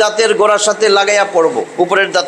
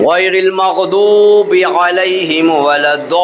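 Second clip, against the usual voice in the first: Quran recitation; slower than usual. Shown as a demonstration. Reciting Quran verse in lesson.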